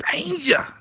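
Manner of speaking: a sung-out high call. Real, not acted. Host calls the guest up to the mic, calling out high.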